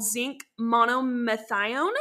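"monomethionine" cut short to end in "-thigh-own"; unsure stab at "monomethionine", dropping the "-ine" ending; first attempt. Real, not acted. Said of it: "That's how you say it".

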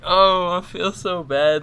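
high, drawn-out, hammed-up sympathy; retold pity. Man retelling how he pitied the crying woman, hammed-up sympathy. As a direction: stretch it out slowly in loud, exaggerated pity.

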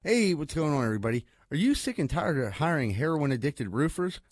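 deadpan comic ad read; sponsor ad read. Acted. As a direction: pitch the roofers like a local commercial. Reads a joking roofer ad.

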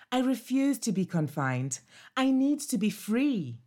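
a restless pup longing to roam; eager puppy Bobo. Acted. Bobo refuses confinement.

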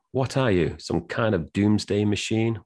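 lightly acted, indignant question; blustering sheriff. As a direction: pitch up as a mock sheriff. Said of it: "So he goes".

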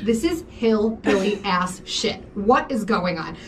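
slow, drawn-out disbelief; incredulous. Retold or imitated. To Bridget about lawn parking, slow disbelief. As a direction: spell out the disbelief slowly.

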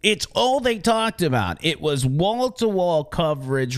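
ordinary talk

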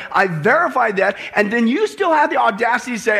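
forceful, driving pulpit rebuke; indignant preaching as Jesus. Acted. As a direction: pile up the proof insistently.

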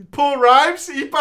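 usual speaking voice

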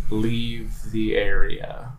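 slow, even robot-like voice; robotic monotone. Acted. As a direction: speak it like a machine, no feeling. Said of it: "in a monotone, nearly robotic voice".

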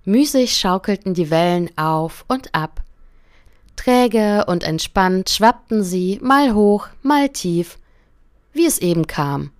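calm, gentle fairy-tale reading; story narration. A narrator's reading. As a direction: read it like a bedtime story to a listener. Reads a fairy tale aloud. (ruhige Märchenerzählung)

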